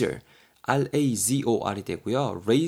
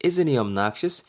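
slow repeat; 3 semitones higher, much slower than usual. Shown as a demonstration. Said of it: "B가 뭐라 그래요".

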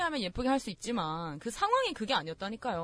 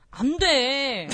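mock drawn-out refusal; 2 semitones higher, 5 dB louder, much slower than usual. Mimicking the junior's refusal.

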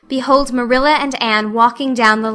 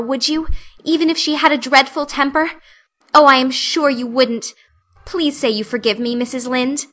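lightly voiced earnest girl; 3 semitones higher than usual. Anne begging forgiveness from Missus Lynde, lightly voiced earnest pleading. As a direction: pour out remorse like a heartfelt confession. Anne's dramatic apology.

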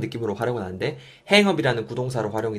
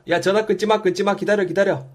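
high, insistent plea to hold on; urgent role-play plea; 9 semitones higher, 4 dB louder than usual. Acted. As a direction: urge the caller to stay on the line. Acts out begging caller to hold.

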